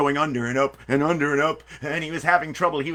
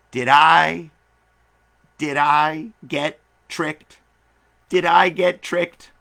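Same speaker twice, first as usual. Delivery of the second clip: upset wondering; 7 dB louder, much slower than usual. Acted. Ant upset after no coins.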